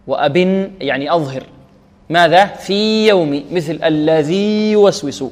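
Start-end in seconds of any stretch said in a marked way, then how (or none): 2.5-3.4 في with a long i before a light y in يوم; clear separation. Shown as a demonstration. Teacher explaining the verse's example, separated long vowel. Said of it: "نظهرها". 3.8-5.2 الذي with a long i, then a light y in يوسوس; clear separation. Shown as a demonstration. Teacher comparing with the earlier example, separated vowel. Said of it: "نظهرها".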